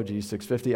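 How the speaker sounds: "fifty" said as one whole number; group it as "six" and "fifty"; low, offhand "G six fifty"; read as number. Shown as a demonstration. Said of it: "I don't know how you say it".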